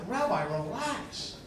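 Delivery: slow, easy reassurance; soothing. Retold or imitated. Telling his upset rabbi to relax, slow and soothing. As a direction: talk the rabbi down slowly.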